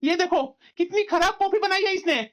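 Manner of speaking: high, indignant accusation; angry complaint. Acted. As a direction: show off the offence in disgusted protest. Son complains angrily to mother.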